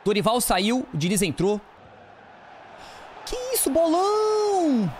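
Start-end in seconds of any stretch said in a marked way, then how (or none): 3.2-4.9 amazed cry. Real, not acted.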